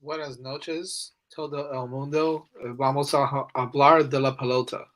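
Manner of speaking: Spanish with a gringo accent; american accent spanish. Real, not acted. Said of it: "they say you sound like a gringo".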